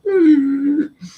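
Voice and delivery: high-pitched mimicked noise from the room; imitated room reaction. Storyteller mimicking the room after being outed, high squeal. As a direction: make the whole room's sound, high and drawn out. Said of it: "the whole room just said".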